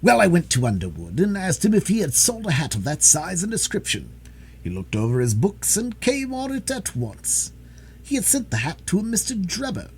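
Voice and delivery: a touch of a detective showing off; lightly voiced self-important detective. Detective explaining his method to Holmes, mildly boastful.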